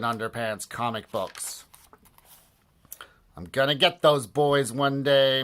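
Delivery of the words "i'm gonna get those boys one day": mean principal vow. Acted. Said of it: "Mister Krupp vowed".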